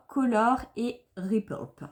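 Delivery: slow attempt at an English accent; French speaker's go at an English accent; mock English accent. Shown as a demonstration. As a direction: say it slowly in a hammed-up English accent. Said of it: "avec mon magnifique accent anglais".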